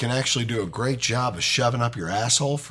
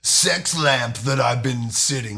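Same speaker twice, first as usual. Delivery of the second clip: slow, lightly voiced genie; a hint of a grand genie. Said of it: "you do the voice of what he".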